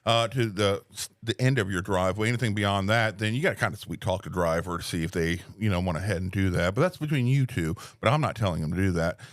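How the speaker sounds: helpful, upbeat phone manner; customer service voice. Shown as a demonstration. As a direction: talk a customer through delivery politely. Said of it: "my phone voice to customers".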